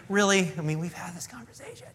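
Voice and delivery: exasperated, trailing soft; Jesus tired of repeating himself; weary Jesus. Retold or imitated. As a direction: sigh it out like a tired teacher. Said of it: "I imagine Jesus going".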